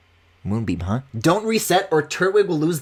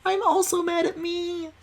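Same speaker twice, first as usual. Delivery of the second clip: high whining complaint; whiny squeak; 13 semitones higher, 3 dB quieter than usual. Real, not acted. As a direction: whine it out. Whiny upset outburst.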